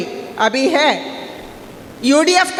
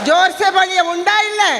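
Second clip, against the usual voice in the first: calling to crowd; 3 semitones higher than usual. Real, not acted. Candidate prodding the rally crowd to respond, calling out. Urging crowd to answer loudly.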